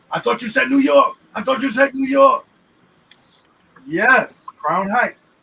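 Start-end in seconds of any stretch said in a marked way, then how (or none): 0.1-2.4 exasperated retort. Retold or imitated. Acted retort, louder and higher.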